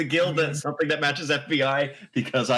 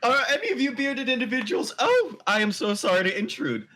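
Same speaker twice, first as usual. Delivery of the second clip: polite apology; 11 semitones higher than usual. Acted. Voices a polite intruder.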